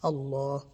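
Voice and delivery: "Allah" with a held L; "Allah", double L and long A; stretched out. Shown as a demonstration. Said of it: "gonna stretch it out a little".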